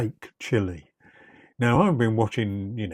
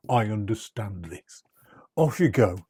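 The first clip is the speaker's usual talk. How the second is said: whisper. Real, not acted. Aside letting viewers skip ahead.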